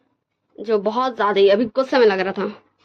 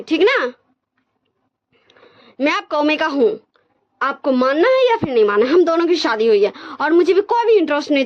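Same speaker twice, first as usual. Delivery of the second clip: retold angry shout; 5 semitones higher than usual. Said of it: "चिल्ला के बोलता है".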